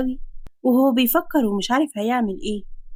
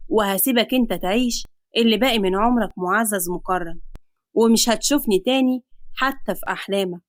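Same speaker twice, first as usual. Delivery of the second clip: lightly voiced villain, a little lower and unhurried; sly creditor; 3 semitones lower than usual. Creditor offers to take girl for debt, mildly sly. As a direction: make the offer as a lightly menacing bargain.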